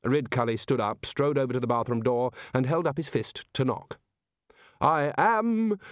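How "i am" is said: slow, self-important grumble; a touch of a pompous grumble; grumbled. A narrator's reading. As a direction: grumble your own rank. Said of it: "he grumbled".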